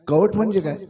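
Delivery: amused, laugh it out; laughing question. A narrator's reading. Asking with a laugh. (हसत हसत विचारलेला प्रश्न)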